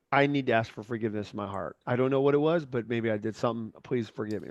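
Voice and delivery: sincere, humble ask for forgiveness; humble apology. Shown as a demonstration. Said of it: "come across with the humbleness up front".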